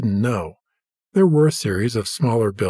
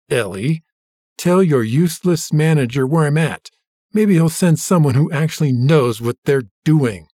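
louder, biting complaint; angry; 3 semitones higher, 3 dB louder than usual. Acted. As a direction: snap at her with contempt. James berates clerk angrily.

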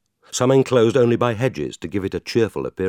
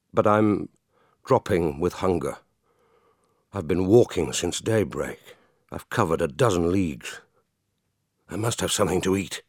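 weary pleading; 3 dB quieter than usual. Acted. Hungry stranger begs for food.

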